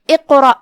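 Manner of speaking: اقرأ with bounced qaf, heavy ra, clear final stop; careful tajweed اقرأ, echoing the qaf; clear final hamza. Shown as a demonstration. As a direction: end اقرأ on an audible glottal catch. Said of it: "ہم حمزہ کو آخری میں ظاہر کریں گے".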